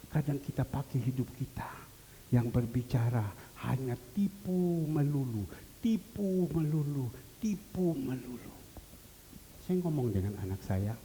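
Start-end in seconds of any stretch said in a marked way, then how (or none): 2.3-8.5 fading to a whisper on lies; fading repetition. Real, not acted. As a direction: repeat it slower, sinking to a whisper.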